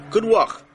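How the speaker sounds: "good vach" high and loud, vach with a throaty ch; host coaching the king; Yiddish vach. Shown as a demonstration. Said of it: "Vach is Yiddish for week".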